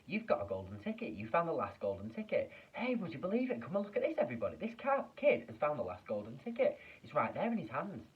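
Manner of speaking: high, loud, beside himself with glee; thrilled shouting. Acted. Shopkeeper shouting to customers about the ticket, thrilled and loud. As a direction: call the whole street in to see.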